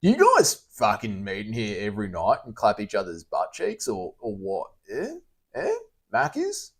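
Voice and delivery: lightly voiced dim-witted heckler, hint of mockery; a touch of dopey mock voice; mock fuckwit voice. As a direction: read chat like an idiot, barely changed. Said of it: "read it out in my fuckwit voice".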